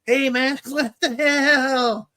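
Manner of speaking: high, drawn-out Latino accent imitation. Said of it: "I know how they talk".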